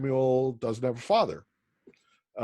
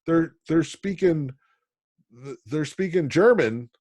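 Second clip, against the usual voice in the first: excited students; 5 semitones higher, 4 dB louder than usual. Retold or imitated. Students excited about hearing German.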